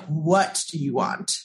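"What" drawn out and leaned on, slow; stress on WHAT. Shown as a demonstration. Showing which word hit hardest, stress on "What". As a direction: put the weight on "What", then ease off. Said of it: "the emphasis on the word".

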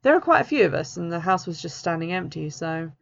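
mock-mysterious tease; hamming up the mystery. Cray to the runaway girl, hamming up the mystery. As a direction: play up the secret like a ghost story. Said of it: "making a face as he hams up the mystery".

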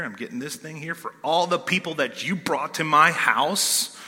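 high, loud, pleading complaint building to a cry; exasperated outburst. Acted. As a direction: pour out her frustration at the guest of honour. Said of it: "she's ticked".

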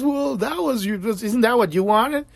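God gently teasing a lazy soul. Retold or imitated. God answering the lazy person.

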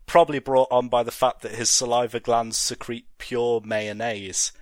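usual speaking voice

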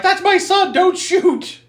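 high panicked cry; frantic plea. Retold or imitated. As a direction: beg them not to shoot. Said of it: "It's like".

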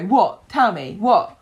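loud, eager pleading; eager demand. Retold or imitated. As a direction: demand to know, loudly. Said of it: "that will make me go".

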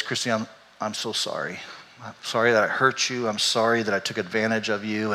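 soft, understated apology; sincere apology. Retold or imitated. Pastor apologizing to his wife before the church, softly sincere. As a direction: say sorry gently and quietly, meaning it.

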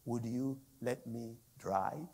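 slow, unhurried gentle question; calm, retold. Holy Ghost asking the struggling driver, acted calm request. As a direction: offer it patiently, no push at all. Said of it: "And he just calmly".

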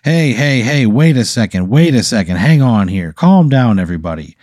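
booming peacemaker cutting in; mildly booming call to settle everyone. Acted. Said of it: "like, a booming voice go".

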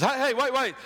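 high urgent call after him. Acted. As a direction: shout to stop a man leaving. Gehazi runs after Naaman calling.

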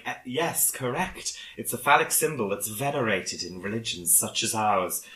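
prim classroom approval, just hinted; mock teacher. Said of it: "she's like".

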